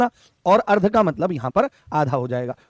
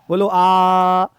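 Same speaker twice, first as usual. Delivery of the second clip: louder prompt; 5 dB louder, much slower than usual. Shown as a demonstration. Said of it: "prompting class".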